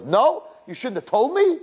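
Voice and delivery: eager bride protesting; whiny protest. Retold or imitated. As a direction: whine like a spoiled bride.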